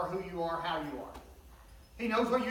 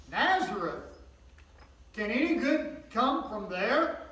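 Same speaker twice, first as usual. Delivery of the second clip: scornful doubt; 4 semitones higher, 5 dB louder, slower than usual. Acted. Nathanael doubting Jesus' hometown.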